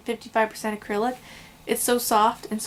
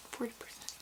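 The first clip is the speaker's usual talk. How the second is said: Forty percent whispered without voice; whispered retry; 18 dB quieter, faster than usual. Shown as a demonstration. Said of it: "I think I said that wrong".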